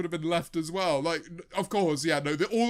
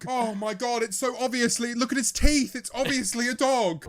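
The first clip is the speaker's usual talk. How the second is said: high, loud outburst of disbelief; amused, exasperated yelling; incredulous exclaiming; 6 semitones higher, 8 dB louder than usual. Real, not acted. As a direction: cry out at the blindingly obvious. Both exclaim at supposed dinosaur.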